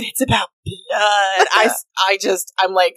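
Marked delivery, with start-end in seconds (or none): 0.0-1.5 slow, low mock of her line; imitating her deadpan. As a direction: drag it out, half laughing. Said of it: "when she said".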